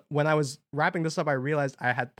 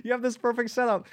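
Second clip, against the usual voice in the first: annoyed listener; 12 semitones higher than usual. Retold or imitated.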